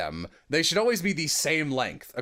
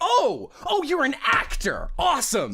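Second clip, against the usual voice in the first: excited relief; 4 dB louder than usual. Retold or imitated. Relieved demo reviewer.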